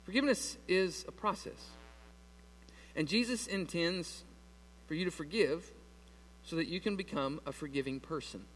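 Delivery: earnest preaching. Acted. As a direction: bring it down and let it land.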